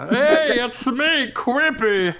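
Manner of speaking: high, loud cartoon greeting; chirpy cartoon sidekick intro; Simpsons character voice. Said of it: "that sounds like a Simpsons character".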